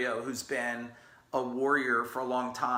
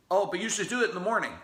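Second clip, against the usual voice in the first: quick, higher, insistent know-it-all; mock pushy advice; 5 semitones higher, 3 dB louder, much faster than usual. Mimicking people who insist he work out mornings, pushy. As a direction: rattle it off like a pushy adviser who knows best.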